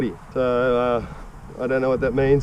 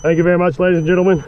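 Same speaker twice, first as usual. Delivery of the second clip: triumphant cheer; 6 semitones higher than usual. Real, not acted. Triumphant after the run.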